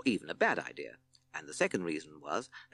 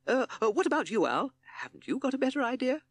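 high, louder, flustered toad; pleading toad; 4 dB louder than usual. A narrator's reading. Toad asking Owl for a better idea, pleading. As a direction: appeal desperately in a high voice.

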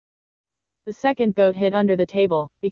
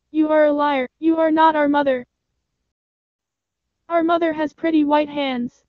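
put-on much higher kid-goat voices; small goats bravely refusing; little goats scolding the wolf through the door; 7 semitones higher than usual.

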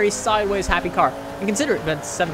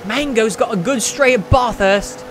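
louder, higher put-on Aussie accent; mock Australian accent; 4 semitones higher, 4 dB louder than usual. Gamer bragging for Mango on the straight, mock Australian accent. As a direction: play the local with a hammed-up Australian accent. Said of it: "I'm not gonna stop doing that".

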